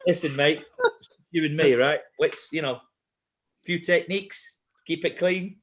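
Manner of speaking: lightly imitated accent of a fellow competitor; mock accent, matey pre-fight pep talk; Mark. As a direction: put on your opponent's accent, proposing terms. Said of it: "excuse the accent".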